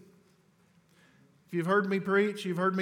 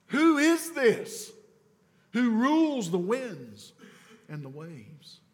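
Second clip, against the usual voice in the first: high, slow, awed question; awed disciples' question; 4 semitones higher, slower than usual. Acted. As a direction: let the wonder rise on "Who is this".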